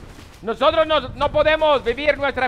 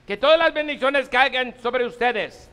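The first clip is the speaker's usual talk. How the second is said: solemn liturgical blessing; priestly blessing. Acted. Priest gives closing blessing.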